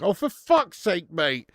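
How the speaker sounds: slow, drawn-out groan at a bad pun; exasperated groan. Real, not acted. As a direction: roll your eyes at a terrible joke.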